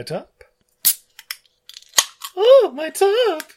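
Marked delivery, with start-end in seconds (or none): 2.4-3.4 excited. Acted. Hammy excitement opening a beer.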